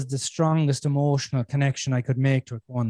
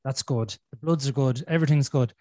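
calm self talk; 3 semitones lower than usual. Retold or imitated. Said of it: "So then I went".

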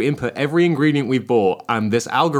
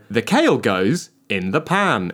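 robot voice; slower than usual. Retold or imitated. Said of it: "Booming robotic voice".

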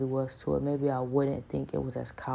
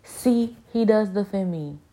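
higher, louder, vindicated cry; triumphant; 5 semitones higher, 7 dB louder than usual. Retold or imitated. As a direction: gloat that God takes your side. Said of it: "And I was like".

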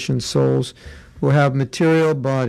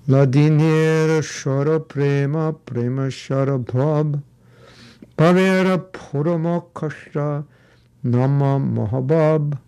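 Bengali accent. Shown as a demonstration. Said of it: "Bengali accent".

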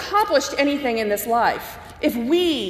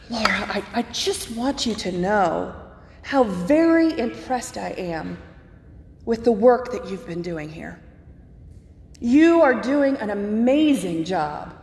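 a measured, mildly intense professor's compliment; intense philosophy professor. Retold or imitated. Professor praising the new college chaplain's work, lightly voiced intensity. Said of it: "He was a very intense philosophy professor".

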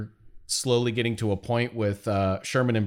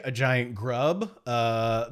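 usual speaking voice

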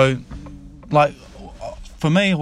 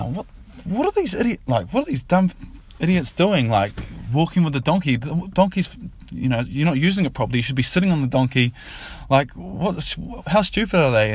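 higher-pitched, incredulous jeering without real laughter; mocking tradies; 4 semitones higher than usual. Tradies laughing at these fellas walking a donkey, mocking. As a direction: act out tradies ridiculing the walkers. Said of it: "cracking up laughing, laughing at these fellas".

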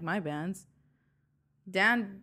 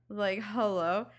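drawn-out hello; 3 dB louder, slower than usual. Retold or imitated. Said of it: "freaking out the entire time".

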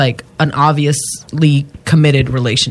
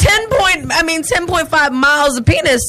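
laughing; 11 semitones higher than usual. Real, not acted. Laughing at the story.

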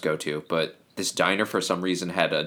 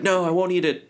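put-on stubborn kid; 11 semitones higher than usual. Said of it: "he's like".

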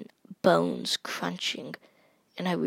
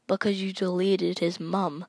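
put-on lightly done British accent, faintly Irish; British accent with Irish hint. Gamer retelling a player's retort, light British-Irish accent. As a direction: say it British with a slight Irish lilt. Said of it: "in a very British accent".

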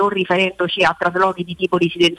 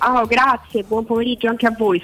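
a real hoarse voice from a seasonal cold; 4 semitones higher than usual. Real, not acted. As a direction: speak through a sore throat. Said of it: "Scusate la voce".

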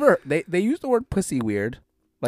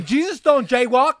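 mock solemn; 9 semitones higher, 4 dB louder, slower than usual. Joking pronouncement about Jesus.

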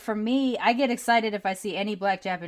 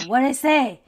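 grandma asking; 6 semitones higher, 9 dB louder, slower than usual. Retold or imitated. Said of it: "And then my grandma".

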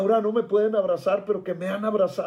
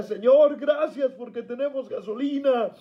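higher, crying-out prayer of thanks; retold tearful thanks; 5 semitones higher than usual. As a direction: cry out thanks to God, as remembered. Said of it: "le lloraba y le decía".

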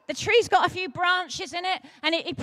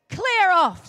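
clear off; 4 semitones higher, 6 dB louder than usual. Acted. Crowd tells Zacchaeus off.

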